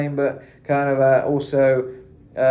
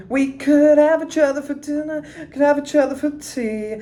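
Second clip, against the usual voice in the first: half sing, half tell it up high; melodic storytelling; 14 semitones higher than usual. Shown as a demonstration. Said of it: "be very dramatic".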